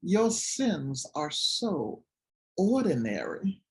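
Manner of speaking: slow, weary sigh of a grandmother; lightly voiced grandmother, slow and sighing. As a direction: drag it out like a Southern church lady. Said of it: "she let out this deep sigh and she said".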